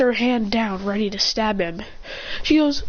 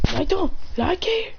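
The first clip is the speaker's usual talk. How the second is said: slow, higher and wary; uneasy; 6 semitones higher, slower than usual. Acted. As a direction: say it warily, drawn out. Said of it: "then he goes".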